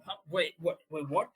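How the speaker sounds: put-on high, loud, yelling at punk kids; panicked old man shouting for his wife; furious confused shout. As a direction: scream him out of the house. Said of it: "his demeanor shifts again".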